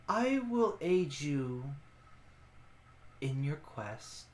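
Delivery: generous, quiet promise; lightly voiced ancient guardian; ancient creature voice.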